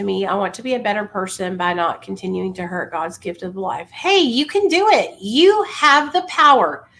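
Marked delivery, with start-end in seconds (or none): 3.9-6.9 loud, rousing pep talk; booming motivational speech. Real, not acted. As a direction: fire them up, push hard. Pumping up a struggling listener.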